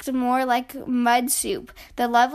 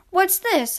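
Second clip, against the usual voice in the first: curious; 7 semitones higher, 4 dB louder than usual. A narrator's reading. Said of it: "asked Sister".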